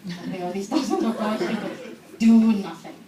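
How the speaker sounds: laughing through the words. Real, not acted. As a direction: giggle while saying it. Laughing at own story.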